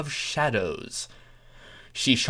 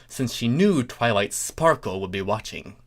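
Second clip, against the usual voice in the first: usual speaking voice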